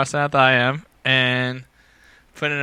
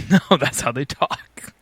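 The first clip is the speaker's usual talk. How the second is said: put-on strained Maine accent; slower than usual. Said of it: "you sound constipated".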